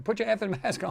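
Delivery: mock her fury while cracking up; laughing mock yell. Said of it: "She's literally ripping him a new one".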